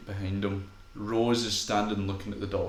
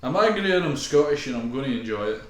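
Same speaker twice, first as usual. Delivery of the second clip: mock Scottish; 3 semitones higher, 7 dB louder than usual. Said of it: "who's full on Scot".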